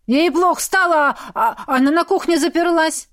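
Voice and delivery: put-on high, stumbling boyish voice; nervous teen. Scared teen tells the mother about her daughter, high and flustered. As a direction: blurt it out, flustered.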